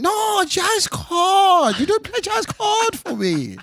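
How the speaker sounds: put-on very high, stretched-out caricatured Asian accent; slow, insistent complaint in a put-on high Asian accent; mock Asian accent. Frustrated customer insisting to pianist, high mock Asian accent. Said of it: "the Asian man's in said again".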